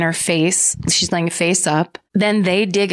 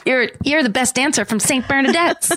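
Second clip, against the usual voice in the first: higher-pitched, through giggles; giggly quoting; 6 semitones higher than usual. Acted. Teasing the co-host with a Grease line, giggly. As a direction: quote it playfully, on the edge of laughter. Jokey movie quote amid giggles.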